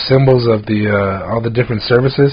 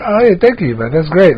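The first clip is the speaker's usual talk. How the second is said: higher, bright-eyed thank-you; mock grateful thanks; 6 semitones higher than usual. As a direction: play it delighted and grateful. Thanking customers for tips.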